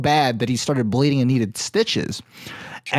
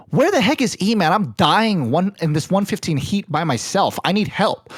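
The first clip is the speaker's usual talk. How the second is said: raised, higher-pitched mock complaint; exasperated friend; 5 semitones higher than usual. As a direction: complain down the phone, desperate for help. Retold frustrated friend phoning for help.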